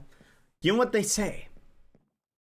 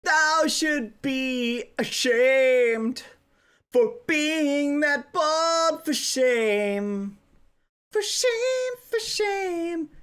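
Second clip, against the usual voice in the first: mock Shakespearean insult; 3 semitones higher, much slower than usual.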